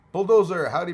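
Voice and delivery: big shouted name; loud callout. Real, not acted. Greeting viewer by name.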